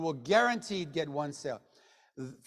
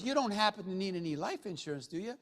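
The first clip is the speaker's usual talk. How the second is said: softly tossed-off sales question; casual negative question; 5 dB quieter than usual. Shown as a demonstration. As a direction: ask it offhand, expecting a no. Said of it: "ask it like this".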